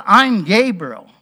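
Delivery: emphatic, a little bit upset; Gabriel. Acted. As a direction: state the name with a touch of indignation. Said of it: "Gabriel's just a little bit upset".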